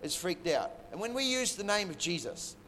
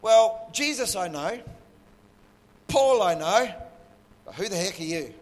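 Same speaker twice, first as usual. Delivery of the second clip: demon voice; 4 dB louder than usual. Retold or imitated. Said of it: "The demon says".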